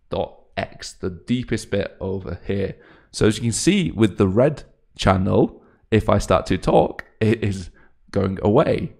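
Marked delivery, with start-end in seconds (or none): 3.1-8.9 raised demonstration voice. Shown as a demonstration. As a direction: project loudly to trigger the display. Raises voice to drive the visuals.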